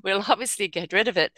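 high, laughing answer; reply with amused disbelief. Retold or imitated. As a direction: hosts laughing reply to an angry emailer. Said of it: "And it's like".

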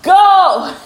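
loud high cue to start; excited shout. Real, not acted. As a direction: shout go to kick it off.

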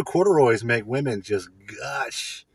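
slow hammed-up declaration; mock boast. Joking that corduroys charm women, slow mock boast. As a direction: oversell it as a joke.

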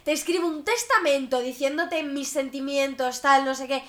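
exaggerated put-upon whine, slow at first; mocking whiny voice. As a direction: play the overwhelmed, dramatic type. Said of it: "esa gente que".

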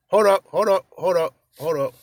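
hype call. Real, not acted. Excited hype before sound bite.

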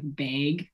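"bag" with a Canadian vowel; Canadian pronunciation. Retold or imitated. Imitating a Canadian asked for the words, Canadian "bag". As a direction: say "bag" closer to "beg", Canadian style. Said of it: "you haven't said any of the words".

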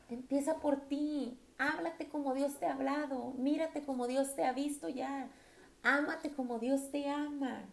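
tender exhortation. Acted. Exhorting women to love themselves.

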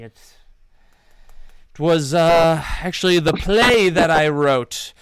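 a touch of smug showman; bard confessing. Acted. Bard admits the lie to the gentlemen, smug. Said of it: "he says".

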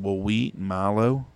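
slow country-twang imitation. Mom telling a kid what they grow, slow country twang. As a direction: draw it out with a light country twang. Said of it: "'Cause Mom's got a twang".

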